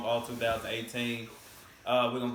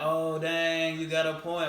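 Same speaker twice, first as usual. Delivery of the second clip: louder, higher mock realization; 5 semitones higher, 4 dB louder, slower than usual. Doubters conceding the point to him, mock realization. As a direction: act out someone suddenly conceding.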